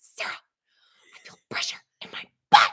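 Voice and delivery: stage whisper loud enough to carry. Retelling what she said before getting her epidural: imitating a whisper. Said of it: "she's whispering".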